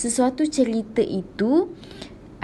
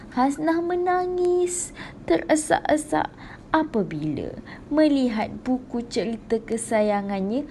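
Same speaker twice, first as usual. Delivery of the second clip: sad reading; 4 semitones higher than usual. Shown as a demonstration. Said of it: "kita pun kena rasa sedih masa baca tu".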